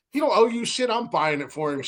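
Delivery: high, laughing mock scold; Joe snapping back.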